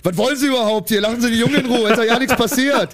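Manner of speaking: angry grandpa. Retold or imitated. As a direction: tell off the police like a feisty grandpa. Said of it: "der ist so voll die Polizisten angegangen". (wütender Opa, der Polizisten anpflaumt)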